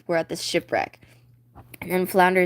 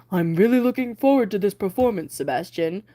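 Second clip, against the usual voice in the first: a hint of a regal king; lightly voiced king. King Triton greeting Sebastian, lightly voiced king. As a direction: speak as the king with slight change.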